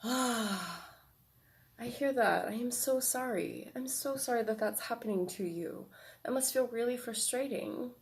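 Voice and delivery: soft, gentle, comforting adult voice; loving adult self. Shown as a demonstration. Adult self comforting the inner child, soft and gentle. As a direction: soothe the child softly and kindly. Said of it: "what a loving, caring, nurturing person would say".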